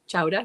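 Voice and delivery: "Chowder" as "chow-dah", questioning rise; attempted Boston chowder. Shown as a demonstration. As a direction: try "Chowder" without the R, ending -ah. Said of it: "Did I say it right?".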